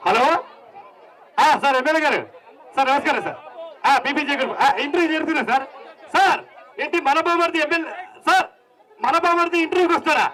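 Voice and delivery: interviewer on phone. Acted. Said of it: "recommendation candidate వస్తే ఎలా ఉంటుందో చూద్దాం".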